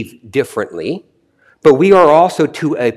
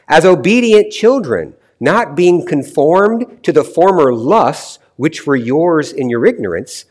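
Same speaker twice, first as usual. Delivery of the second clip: raised, emphatic scripture reading at an unbroken pace; 3 semitones higher than usual. Real, not acted. Preacher reading the chosen Bible passage to listeners, emphatic scripture reading. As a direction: read the verse out to a congregation, pitched up.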